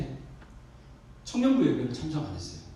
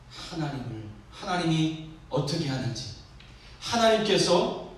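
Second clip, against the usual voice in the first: ordinary delivery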